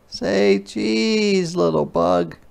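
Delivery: put-on high, cheerful sing-song girl; a child happily posing the clouds; little girl voice. Ruthie playfully asks the clouds to smile, high sing-song. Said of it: "She tried it out".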